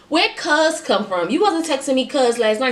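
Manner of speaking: sass it up with disbelief; indignant. Real, not acted. Indignant rhetorical outrage.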